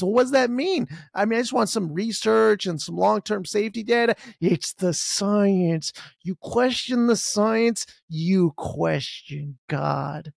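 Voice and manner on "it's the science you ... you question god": slow, droning mock sermon voice; mock preacher. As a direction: intone it like a zealot preaching dogma. Mocking zealots' slogan, preached.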